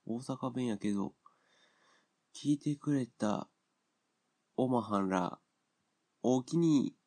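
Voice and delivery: slow, playful Osaka-dialect thanks with おおきに; mock Osaka dialect. Host thanking listeners in a hammed-up Osaka dialect. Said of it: "大阪弁だけどね".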